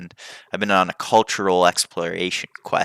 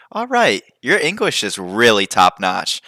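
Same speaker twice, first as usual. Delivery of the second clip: mock praise; 4 semitones higher, 5 dB louder than usual. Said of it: "And I was like".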